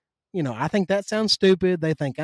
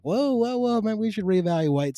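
retold startled opponents; 5 semitones higher than usual. Voices taken-aback opponents.

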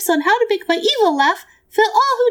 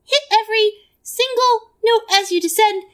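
ordinary delivery

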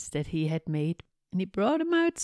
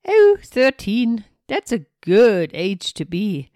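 witch voice; 2 semitones higher, 10 dB louder than usual. Acted. Witch reacting to young age.

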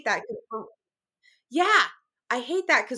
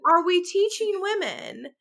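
higher, emphatic, exasperated ranting; impassioned rant; 4 semitones higher, 3 dB louder than usual. Real, not acted. Mother railing against impossible standards for women, impassioned rant. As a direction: rant it out, leaning on key words. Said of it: "That was my rant for the day".

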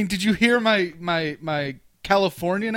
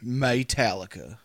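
low, drawn-out band name; said just so; 7 semitones lower, 4 dB quieter than usual. Shown as a demonstration. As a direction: draw the name out deep and slow. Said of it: "you have to say it like that too".

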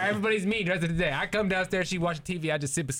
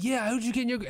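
imitating his son; 8 semitones higher, faster than usual. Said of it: "And he'd be like".

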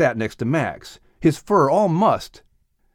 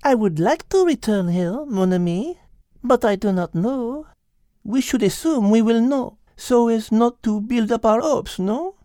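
put-on higher French accent, amused; French-accented Liz; 10 semitones higher than usual. Liz explaining the rooster, French accent. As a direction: explain it with Gallic ease.

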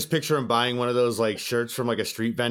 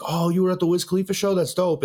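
higher-pitched, impressed exclamation; impressed fan; 5 semitones higher than usual. Retold or imitated. Girls in line admiring his concert photos, impressed.

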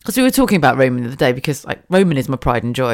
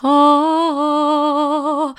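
surprised gasp; 12 semitones higher than usual. Retold or imitated. Child spots the microphone.

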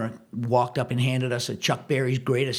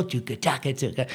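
mock drum sounds; 4 dB quieter than usual. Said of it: "And I'm still".

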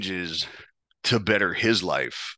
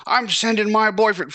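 much higher, louder mock female voice; mocking the girl; 12 semitones higher, 4 dB louder than usual. Girl threatening him on the phone, high mock voice. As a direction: squeak it up like a taunting girlfriend.

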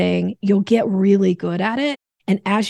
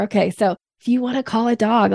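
ordinary talk

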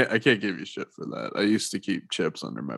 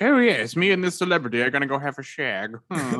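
smug English bloke, pitched up; English roommate voice; 4 semitones higher than usual. Retold or imitated. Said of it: "his roommate's like".

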